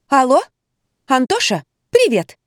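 high, loud phone greeting; phone chirping. A narrator's reading. A lightly voiced woman chirps to her lover on the phone. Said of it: "зачирикала в трубку".

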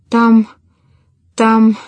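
halting, frightened stammer; a touch of panic, breaking off; stammering in terror. A narrator's reading. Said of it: "заикалась старуха, как безумная". (заикаясь от ужаса)

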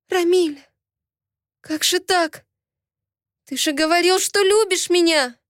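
betrayed lover pleading; hurt pleading. Acted. (обиженная мольба, выше)

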